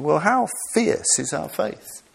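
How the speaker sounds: fierce challenge. Real, not acted. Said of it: "challenging the listeners".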